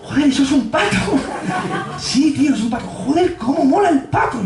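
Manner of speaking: high, excited mock amazement; marvelling at a duck. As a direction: gush over something ordinary. (amigos flipando con un pato)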